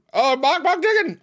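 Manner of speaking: high, loud cluck-swearing; shrieked chicken curse; frustrated game yell. Real, not acted. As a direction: yelp it out in sudden game frustration. Yelling during the chicken game.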